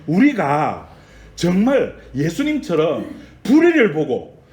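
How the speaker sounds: impassioned sermon voice; forceful preaching. Real, not acted. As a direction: press the challenge on the congregation.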